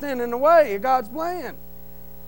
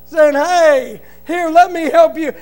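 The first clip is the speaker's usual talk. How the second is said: louder, slow, fervent prayer to God; 4 semitones higher, 5 dB louder, slower than usual. Retold or imitated. Praying in his truck for the banker, loud fervent plea. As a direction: pray it out loud and slow with full conviction. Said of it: "I sat in that truck and I said".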